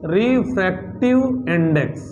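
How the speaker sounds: slow, broken into pieces with a falling end; slow, measured term. Shown as a demonstration. Teacher gives the class the term's name, slowly and spaced out.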